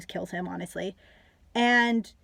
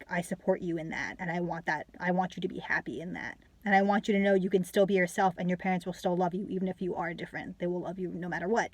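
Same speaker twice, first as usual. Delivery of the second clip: gentle reassurance; 4 dB quieter than usual. Pretend. Voicing a supportive aunt to nephew.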